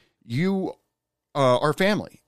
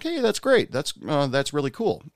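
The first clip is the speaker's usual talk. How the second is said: much higher, bright retold praise; excited congratulations; 5 semitones higher than usual. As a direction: cheer a coworker on, much higher. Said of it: "And I was like".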